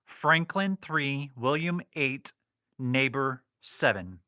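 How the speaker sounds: Franklin three, William eight, Neighbor seven slowly spelled out; spelled out phonetically. Shown as a demonstration. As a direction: read each code word slowly and clearly. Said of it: "I spelled that out phonetically".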